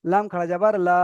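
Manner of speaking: লাম খাড়া যাবার লা with the last লা held long; elongated final LA. Shown as a demonstration. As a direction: spell it out, then stretch লা. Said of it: "বানান করার সময় টান দিয়ে".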